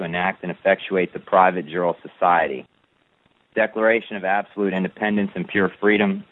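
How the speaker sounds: steady, measured recital of a legal text; formal document reading. Acted. Reading his declaration of independence to a follower, formal recital. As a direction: read it like a solemn proclamation.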